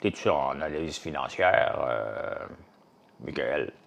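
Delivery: a fan teasing the streamer over DMs, low mock voice; mock deep voice. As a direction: imitate a fan asking in a low put-on voice. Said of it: "On va prendre une voix".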